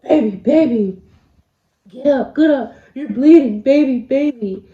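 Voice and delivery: loud, frantic pleading to get up; panicked boyfriend. Retold or imitated. Boyfriend yells at bleeding girlfriend, loud and frantic. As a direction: shout at her to get up, panicking. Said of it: "And he's like".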